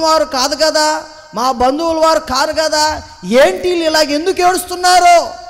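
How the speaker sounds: retold mother crying out in wonder; mother's bewilderment. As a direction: voice the mother's astonished outburst. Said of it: "అని వాళ్ళ మొఖాల కళ్ళే చూస్తూ ఉంది".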